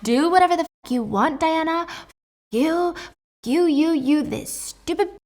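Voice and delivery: high, loud furious mother's rant; screaming rant. Acted. Mom screaming at her daughter to back off, ranting. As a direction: yell it in an acted rage. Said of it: "her mom is ranting ... and screaming".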